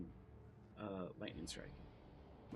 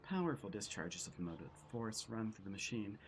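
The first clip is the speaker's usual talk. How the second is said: dramatic storyteller read; story narration. Acted. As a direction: build the grim scene aloud. Reads game narration aloud.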